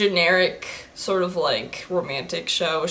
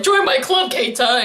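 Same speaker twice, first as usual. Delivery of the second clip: imitating an eager classmate; eager club recruiter; 3 semitones higher than usual. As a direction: call out like a keen club member. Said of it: "Everyone's just like".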